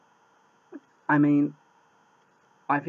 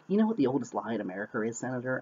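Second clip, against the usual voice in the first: mock overacting villain; faster than usual. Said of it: "He's always overacting".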